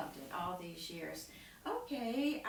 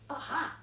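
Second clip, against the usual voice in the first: higher, sudden "aha"; short triumphant exclamation; heroic "aha"; 6 semitones higher, 4 dB louder than usual. Shown as a demonstration. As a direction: announce the handsome prince. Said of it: "you go".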